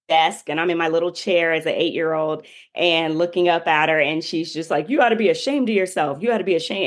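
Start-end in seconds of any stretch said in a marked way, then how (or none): 4.9-6.8 put-on scolding in a light Bahamian accent; quick, slightly raised Bahamian-accented telling-off. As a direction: imitate a teacher's Bahamian accent. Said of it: "in her Bahamian accent".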